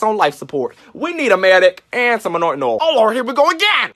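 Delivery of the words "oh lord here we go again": high, loud "Oh, Lord"; hammed-up exasperation; exasperated cry. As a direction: throw your eyes to heaven.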